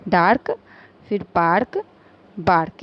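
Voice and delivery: डार्क, पार्क, बार्क each said apart with the shared "aark" ending; rhyming pronunciation demo. Shown as a demonstration. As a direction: model the rhyming "aark" words one at a time. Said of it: "इस तरह से इसे हम पढ़ेंगे".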